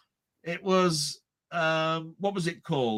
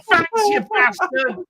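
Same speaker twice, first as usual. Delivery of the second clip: higher, slow, sour sarcastic thanks; sarcastic moviegoer; 11 semitones higher, 4 dB louder, slower than usual. Retold or imitated. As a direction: drag out the thanks like an annoyed stranger. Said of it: "you see the faces in there go".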